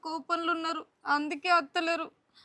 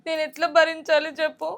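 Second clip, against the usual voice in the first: tearful. Acted. Wife crying over brother's words.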